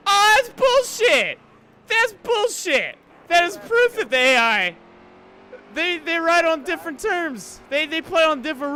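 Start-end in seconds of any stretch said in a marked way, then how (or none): 0.1-3.0 loud, slow furious protest; angry gamer. Real, not acted. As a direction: rage at the unfair AI. AI car passes through sand.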